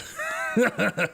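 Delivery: mimicked guffaw from the belly; hearty belly laugh. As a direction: laugh heartily like the jolly diner. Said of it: "really hearty, like, genuine belly laugh".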